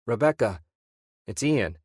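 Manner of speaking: Rebecca said with a forced, audible smile. Acted. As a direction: put on a cheerful face to hide worry. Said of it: "Ian forced an unnatural smile as he spoke".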